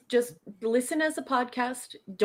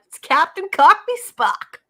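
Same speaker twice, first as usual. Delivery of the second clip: announcer voice; 9 semitones higher, 8 dB louder than usual. Real, not acted. Announcing the name again.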